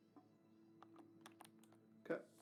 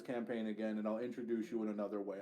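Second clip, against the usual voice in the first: exasperated; 5 dB louder than usual. Real, not acted. GM scolds player for complaining.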